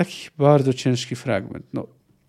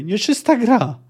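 crowd roar; 7 semitones higher, slower than usual. A narrator's reading. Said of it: "a wraz z nim ryczał tłum".

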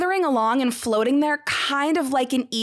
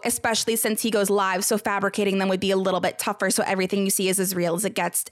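fast, lower rattled-off quote; quick re-read of quote; 4 semitones lower, much faster than usual. Retold or imitated. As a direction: rush back through the quote, lower. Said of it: "go back a sec about the whole quote".

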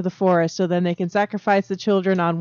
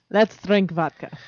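mock whisper; 3 semitones lower, 4 dB quieter, slower than usual. Joining the Russian joke.

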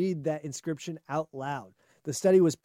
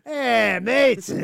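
put-on loud, higher drunk Brit at the bar; drunk British accent; 6 semitones higher, 6 dB louder than usual. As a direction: slur it out like a drunk Englishman. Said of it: "like a British drunk guy".

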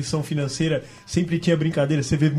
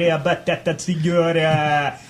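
rhyming market barker. Retold or imitated. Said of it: "Aí o cara fica lá".

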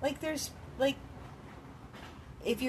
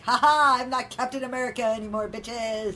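cocky gloat; 2 semitones higher, 6 dB louder than usual. Retold or imitated. Mocking Chris Evans' attitude.

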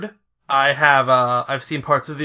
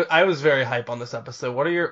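ordinary talk

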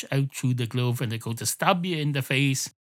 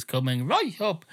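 lilting catchphrase, pitched a bit up; catchphrase sample; 5 semitones higher than usual. Retold or imitated. Imagining a keyboard button that plays the barman's catchphrase. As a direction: say it like a looped sound button. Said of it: "a button on your keyboard that goes".

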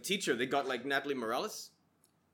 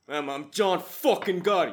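mock New York accent; 2 semitones higher, 6 dB louder, slower than usual. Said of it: "Joe Rogan's just like".

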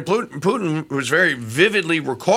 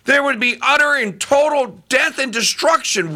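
higher, pleading quoted Putin; earnest Putin; 11 semitones higher than usual. Retold or imitated. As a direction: plead it as a peacemaker, pitched up. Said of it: "he says the most amazing thing".

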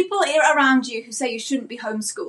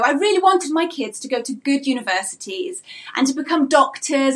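passive-aggressive auntie. Retold or imitated. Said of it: "That auntie says something to you like this".

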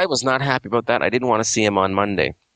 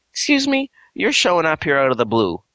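indignant retort; 2 semitones higher than usual. Retold or imitated. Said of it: "'cause he thought I was playing games".

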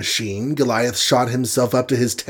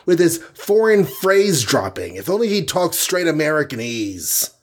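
higher, fuming rant; exploding; 7 semitones higher than usual. Acted. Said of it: "exploded Hawkeye".

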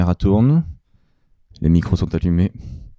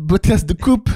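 host intro voice; 8 semitones higher, slower than usual. Retold or imitated. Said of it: "Bienvenue dans ce co".

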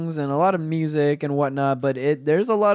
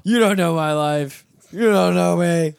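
mock defiant; 4 dB louder than usual.

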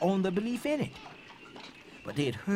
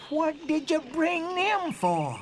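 questioning officer; 10 semitones higher, slower than usual. Acted. Officer questions in quoted exchange.

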